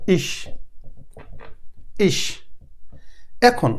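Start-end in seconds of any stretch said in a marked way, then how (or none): 0.1-2.2 ইস said slowly as German ich, with a soft final s. Shown as a demonstration. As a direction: spell out ইস, the German ich, on its own. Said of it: "এই যে ইস কথাটা বললাম".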